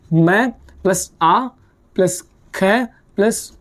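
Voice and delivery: slow, deliberate letter-by-letter build; slow spelling out. Shown as a demonstration. Teacher spelling a German word for students, slow and deliberate. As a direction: spell it out sound by sound, slowly. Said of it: "इसको pronounce क्या किया जाएगा".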